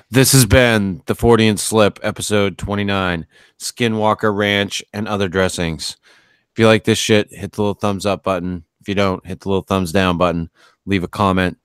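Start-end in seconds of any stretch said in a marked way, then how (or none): 0.1-6.0 show host outro. Acted. Outro announcement.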